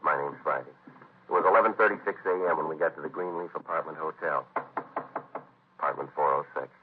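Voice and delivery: hard-boiled police narration; detective narration. A narrator's reading. Friday's first-person case narration.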